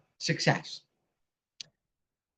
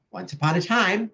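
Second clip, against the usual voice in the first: storybook opening; 5 semitones higher than usual. Shown as a demonstration. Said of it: "every good story begins once upon a time".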